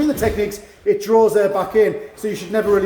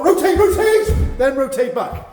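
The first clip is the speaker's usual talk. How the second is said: sing-song cue; 4 semitones higher, slower than usual. Shown as a demonstration. Coach calling out movement cues.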